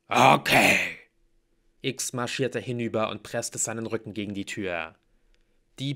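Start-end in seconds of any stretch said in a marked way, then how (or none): 0.1-0.8 very loud, booming assent; bellowing half-troll. A narrator's reading. Half-troll agrees to block the door, bellowing. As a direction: roar the answer.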